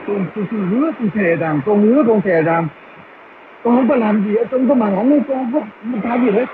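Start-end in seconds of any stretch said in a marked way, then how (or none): none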